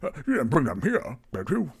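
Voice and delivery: uneasy innkeeper seeking reassurance; nervous. Acted. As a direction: ask worriedly, voice lifted. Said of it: "gets nervous".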